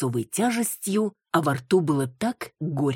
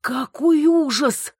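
much higher, slow, loud cry of horror; stunned loud exclaim; horrified exclamation; 11 semitones higher, 6 dB louder, slower than usual. A narrator's reading. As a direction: gasp it out in shock. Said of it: "воскликнула она".

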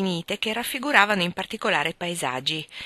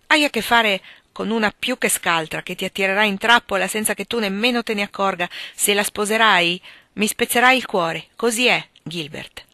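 heartfelt, emphatic motherly plea; serious scolding; 2 semitones higher, 4 dB louder than usual. Acted. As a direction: warn a son with rising feeling. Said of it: "una ramanzina piuttosto seria".

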